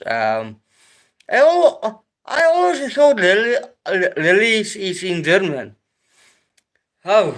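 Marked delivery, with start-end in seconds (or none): 1.3-7.3 real surprise, high and loud; surprised. Real, not acted. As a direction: pitch jumps way up, amazed. Still reacting to the correction.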